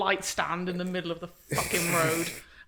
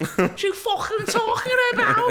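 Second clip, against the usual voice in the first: heavy Liverpool Scouse accent, shrill, very high and loud; 7 dB louder than usual. Joking about scaring someone off by turning around: strong Scouse accent. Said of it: "doing a real strong Scouse accent".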